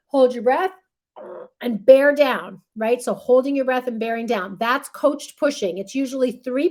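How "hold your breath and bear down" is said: counting a push. Shown as a demonstration. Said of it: "she will count for you".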